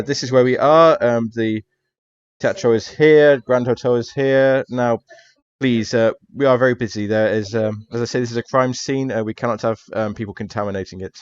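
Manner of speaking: busy, officious Italian policeman, lightly voiced; a hint of a detective shooing someone along. Detective showing a lost tourist the map, officious.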